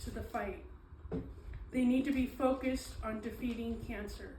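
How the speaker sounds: measured speech reading with deliberate pauses; prepared speech. Acted. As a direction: read it out phrase by phrase, landing each line. Reads a prepared introduction aloud.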